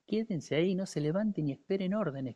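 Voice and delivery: wounded sergeant shouting his men to stay put; sergeant's order. Retold or imitated. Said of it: "Me dice".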